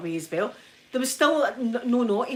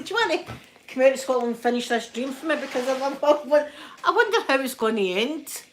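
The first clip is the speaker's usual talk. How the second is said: laughing through it; 3 semitones higher, 3 dB louder than usual. Acted. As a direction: let the laugh break into the words. Laughing letter to Marshall.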